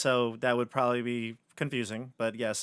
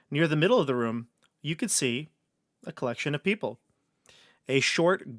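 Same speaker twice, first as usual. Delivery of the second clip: dungeon master narration. Acted. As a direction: paint the room for the players. Game master's scene setting.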